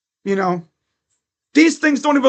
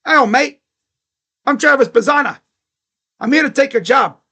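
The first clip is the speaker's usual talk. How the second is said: put-on Australian accent; 2 semitones higher than usual. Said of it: "that Australian is gonna be knocking on his door saying".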